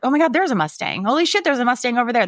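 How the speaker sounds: quick, bright exclaim at each sighting; excited car spotting. Retold or imitated. Mock-excited gushing at a Mustang sighting. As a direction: gush fast over every Mustang you spot. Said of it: "be like".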